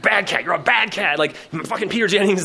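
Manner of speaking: retold rant at a cat, losing it; mock screaming. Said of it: "I start screaming at the cat".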